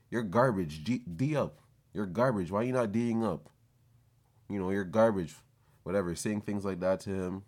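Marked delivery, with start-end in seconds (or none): 0.1-5.4 trash-talking friend. Retold or imitated. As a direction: imitate a friend taunting a kid on court. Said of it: "my friend's shooting shots in his face and saying".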